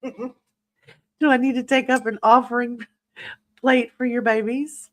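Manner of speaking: laughing through a teasing question; laughing tease. Real, not acted. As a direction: giggle while you tease her. Teasing a viewer about triplets.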